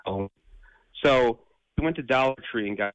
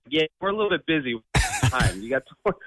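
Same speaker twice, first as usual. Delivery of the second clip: put-on Detroit accent; 3 semitones higher than usual. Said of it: "totally Detroit".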